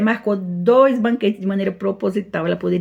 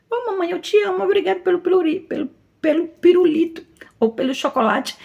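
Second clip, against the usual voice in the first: put-on high, sweet child thanking mummy; little child voice; 10 semitones higher than usual. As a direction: play a small child gushing over a lollipop. Criança agradece pelo pirulito. (voz aguda de criança agradecida)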